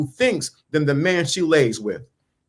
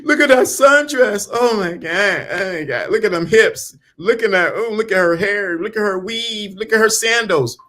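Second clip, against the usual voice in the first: higher, gushing drooling voice; hammed-up higher ogling voice; mock ogling guy; 4 semitones higher than usual. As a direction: play a man drooling over a sundress. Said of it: "you're not thinking".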